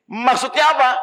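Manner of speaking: high, offended demand; indignant question. Acted. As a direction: snap the question back at her. Husband quarrels with wife. (suami tersinggung, bertanya dengan nada tinggi)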